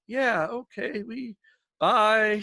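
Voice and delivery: high, curt mock goodbye; dismissive brush-off. Critic brushing off the eager host, curt and high. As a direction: wave him off with a fake-cheery bye. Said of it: "they were like".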